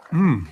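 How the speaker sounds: pleased mm while chewing; savoring popcorn with a hum; appreciative food hum. Real, not acted. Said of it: "this popcorn's so good".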